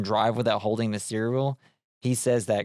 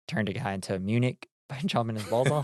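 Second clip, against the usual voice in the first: laughing; 4 dB quieter than usual. Real, not acted. Laughing while retelling.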